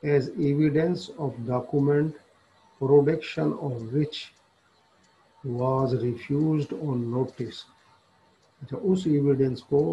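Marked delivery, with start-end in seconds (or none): 0.0-7.6 reading the law text aloud very slowly, word by word; slow statute reading. Acted. Lecturer reading the statute to law students, slow dictation.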